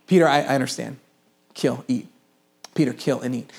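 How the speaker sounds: God calmly insisting to stubborn Peter; patient voice of God. Acted. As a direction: speak down gently as God, unhurried. God repeating himself to Peter.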